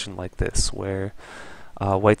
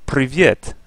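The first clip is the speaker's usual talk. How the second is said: Russian greeting; 4 semitones higher, 5 dB louder than usual. Shown as a demonstration. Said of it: "or should I say".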